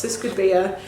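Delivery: ordinary talk, nothing marked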